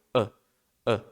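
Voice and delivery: "a" as a short relaxed schwa; a quick lazy uh sound. Shown as a demonstration. Teacher demos the schwa to learners. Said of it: "tem o som do schwa".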